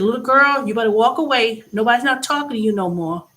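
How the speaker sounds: loud, firm telling-off of a rude worker; angry warning. Retold or imitated. Customer warning a rude McDonald's worker, loud and angry.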